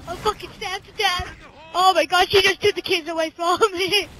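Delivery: hammed-up dying cries for help; mock panic. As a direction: fake panic, stabbed. Pretends dying from stab wounds.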